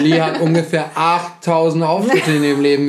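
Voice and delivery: talking with food in mouth; words around a bite; mouth full. Real, not acted. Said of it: "Ich rede hier mit vollem Mund".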